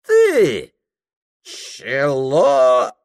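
father jeering at his son; mocking father. A narrator's reading. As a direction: sneer the word back at him. Father mocks son's answer.

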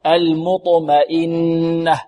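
slow المطمئنة, light م then thick ط; thin mim, heavy ta. Shown as a demonstration. Teacher demonstrating contrast, thin م and heavy ط in المطمئنة. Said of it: "ونرقق الميم كذلك".

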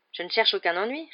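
mildly annoyed retort; irritated. A narrator's reading. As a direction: bristle a little at the warning. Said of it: "répliqua Harry agacé".

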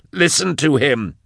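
high, drawn-out yell. A narrator's reading. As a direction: yell it slowly through the bars. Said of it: "Drusha yelled through the bars".

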